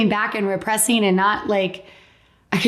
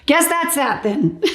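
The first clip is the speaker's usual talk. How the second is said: high, giggly repeat; laughing echo; 8 semitones higher than usual. Retold or imitated. Patient echoing the doctor, giggling.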